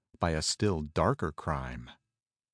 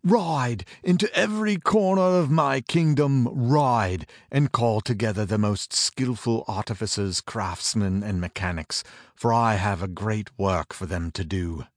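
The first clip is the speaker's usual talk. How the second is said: commanding king; 3 semitones higher, 5 dB louder than usual. Acted. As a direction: order them out like a desperate king. King commands his messengers.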